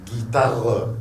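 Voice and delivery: "guitare" ending on an audible R; R pronounced. Shown as a demonstration. Teacher modelling the German word, R pronounced. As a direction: sound the R in "guitare". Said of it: "on prononce le R".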